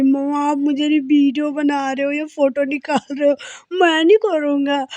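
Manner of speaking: playing the shy niece refusing the camera; aunt voicing the little niece's protest, mildly childlike; child's voice. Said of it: "फिर कह रही".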